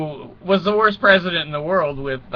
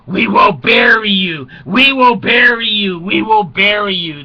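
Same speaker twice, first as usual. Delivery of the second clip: mock Khrushchev ranting; 4 semitones higher, 6 dB louder than usual. Khrushchev to the Americans at the UN, loud chant. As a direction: pound it out like banging a shoe.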